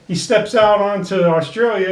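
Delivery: ordinary talk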